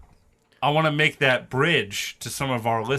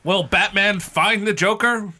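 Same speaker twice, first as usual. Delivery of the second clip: higher, hammed-up teaser voice; cartoon cliffhanger narrator; 6 semitones higher than usual. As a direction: ask it like an old cartoon outro.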